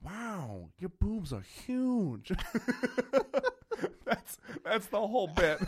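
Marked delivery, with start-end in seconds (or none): 0.0-2.3 slow, higher lazy drawl; Owen Wilson impression. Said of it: "this is Owen Wilson in a porno".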